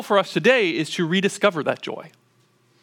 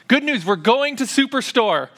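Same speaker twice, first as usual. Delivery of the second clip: a touch higher mock announcement; dad's good news; 6 semitones higher than usual. Dad proclaiming the Superstore trip, lightly hammed up. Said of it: "I bring this good news".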